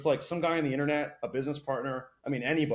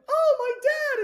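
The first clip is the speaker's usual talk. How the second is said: high mocking squeak of a made-up excuse; mocking whine; 7 dB louder, much slower than usual. Mocking the excuse of living for your dad, high whiny voice. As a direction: sneer it out in a high put-on voice.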